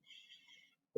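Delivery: unvoiced hush; quiet everyone down; shushing. A narrator's reading. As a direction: James shushing. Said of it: "whispered James".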